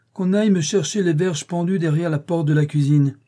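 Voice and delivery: thundering order. Acted. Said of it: "comme un Jupiter tonnant".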